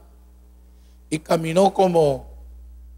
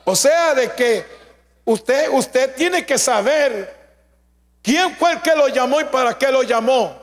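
raised, emphatic preacher delivery; emphatic sermon voice; forceful preaching; 6 semitones higher, slower than usual. Real, not acted. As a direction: preach it slowly and firmly, driving the point home.

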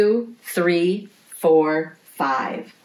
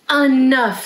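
protesting; 7 semitones higher, 6 dB louder than usual. A narrator's reading. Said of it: "said Wooly".

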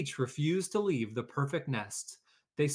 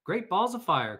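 loud, higher exclamation; goose cry; 6 semitones higher, 6 dB louder than usual. A narrator's reading. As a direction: bellow it out like an indignant goose. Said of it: "cried the goose".

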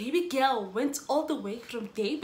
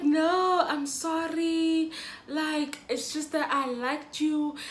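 imitating his apology; 5 semitones higher, slower than usual. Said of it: "And then he'd be like".

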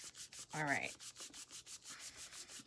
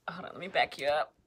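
usual speaking voice

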